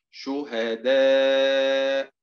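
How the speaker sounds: شهداء stretched slowly, each syllable drawn out; slow drill word. Shown as a demonstration. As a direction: draw out شهداء slowly for the class. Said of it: "teacher drills word pronunciation". (نطق شهداء ببطء ووضوح)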